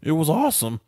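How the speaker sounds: bursting into high laughter; laughing while talking. Real, not acted. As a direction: laugh it out, delighted. Laughing at Goosebumps memory.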